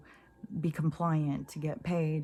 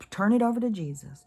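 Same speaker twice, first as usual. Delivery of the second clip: mock preacher; 4 semitones higher, 5 dB louder than usual. Mocking preachy believers.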